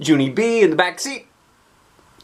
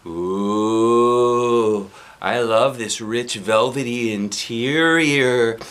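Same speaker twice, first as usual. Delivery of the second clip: mock posh; 4 dB louder, much slower than usual. Child admiring car seat.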